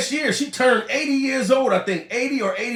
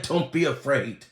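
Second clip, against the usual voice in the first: low, soft quote; 8 semitones lower, 5 dB quieter than usual. Retold or imitated. Comedian quoting the singer, low hushed delivery. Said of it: "He said".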